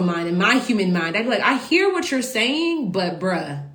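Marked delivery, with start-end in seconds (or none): 1.4-3.7 drawn-out, higher start dropping on the protest; reluctant pushback. Retold or imitated. Speaker answering God's daunting assignment, reluctant pushback. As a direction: stall politely, then object. Voicing own reluctant reply to God.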